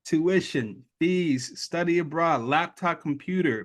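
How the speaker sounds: a lightly voiced proud official; upbeat committee announcement. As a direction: announce the prize like good news. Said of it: "They say".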